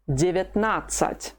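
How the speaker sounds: Девятнадцать with the stress on НАД, the third syllable. Shown as a demonstration. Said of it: "No, it's on the third syllable".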